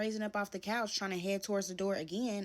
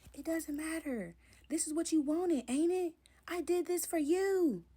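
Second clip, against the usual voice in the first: a hint of a pushy boyfriend, higher; lightly voiced guilt-trip, rising and louder; mimicking the boyfriend; 10 semitones higher, 4 dB louder than usual. Boyfriend guilt-tripping her about the apartment, lightly voiced pushy.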